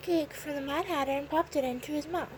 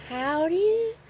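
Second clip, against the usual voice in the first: loud, higher answering whoop; hollering back; 4 semitones higher, 6 dB louder than usual. A narrator's reading. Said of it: "the March Hare hollered back".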